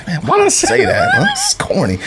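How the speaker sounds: high, laughing self-mockery; squeaky embarrassed laughter at a corny line; laughing at himself. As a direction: cringe at yourself through giggles. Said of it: "and I'm like".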